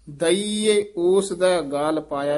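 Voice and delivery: each vowel of ਦਈਏ sounded. Shown as a demonstration. Teacher showing students ਦਈਏ said "da-ee-ay". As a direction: say ਦਈਏ in three syllables. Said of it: "ਇਸ ਨੂੰ ਦਈਏ ਉਚਾਰਨ ਕਰਨਾ ਹੈ".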